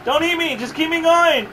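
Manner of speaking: high, panicked begging; frantic pleading. Real, not acted. Pleading with game character.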